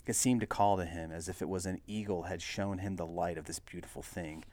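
steady, measured read-aloud narrator; story narration. A narrator's reading. Reader telling the Buick's history, story narration.

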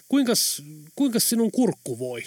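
a hesitant start, rising on the first kuinkas; timidly. Acted. Jorma timidly asks the driver about his throat. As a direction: ask shyly, half afraid of the answer. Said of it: "kysyi Jorma arasti".

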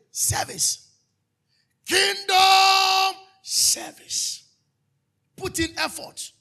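preacher roaring the word for the church; shouted call. Real, not acted. Preacher to congregation, a long rising shout. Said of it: "What did I say?".

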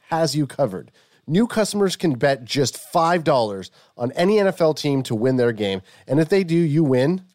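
upbeat sponsor ad voice; ad read. Acted. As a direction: sell it like a radio spot.

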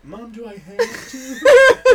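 put-on high whining teen plea; whiny kid voice. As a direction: whine it like a sulky kid. Whiny kid voice quoting self.

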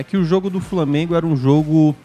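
ordinary talk, nothing marked

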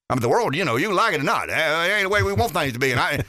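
lightly imitated political pundit, rushed at the end; a hint of a folksy impression, tumbling out; James Carville. Radio host retells a pundit's election-night reaction, lightly imitating him. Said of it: "that's how he said it".

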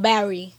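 "Barry" as Philly for battery, middle t dropped; mimicked Philly "Barry", two syllables with no t; Philly pronunciation. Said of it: "they really over here talking about".

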